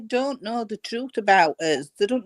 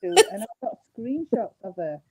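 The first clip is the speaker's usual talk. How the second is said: muffled, phone covered by hand. Real, not acted. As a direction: talk through a covered phone. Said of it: "you're covering your, your phone a bit".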